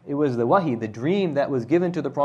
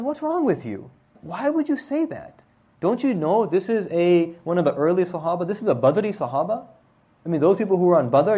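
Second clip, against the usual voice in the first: shocked rebuke; 4 semitones higher than usual. Retold or imitated. Aisha scolding Umm Mistah.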